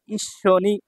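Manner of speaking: ঈশ্বনি with a held double sh; doubled consonant. Shown as a demonstration. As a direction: linger on the sh in ঈশ্বনি. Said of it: "পরের বর্ণটা দুইবার উচ্চারণ হবে".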